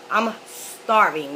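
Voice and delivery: hungry, slow groan of a line; slow, drawn-out starving. Real, not acted. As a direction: stretch it out slowly, weak with hunger. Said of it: "I was literally starving".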